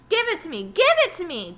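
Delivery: loud, high, insistent demand. Acted. Terrence demanding the ball from Lewis, loud and insistent. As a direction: insist loudly, like a greedy kid. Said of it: "Terrence demanded".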